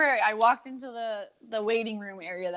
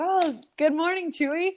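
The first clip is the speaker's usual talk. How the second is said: bright, higher, playful hello; cheery greeting; 8 semitones higher than usual. Retold or imitated. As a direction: lighten the mood with a chirpy greeting. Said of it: "trying to lighten the mood".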